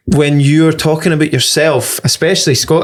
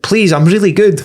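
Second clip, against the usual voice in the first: mock pleading; 6 semitones higher than usual. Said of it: "you being like".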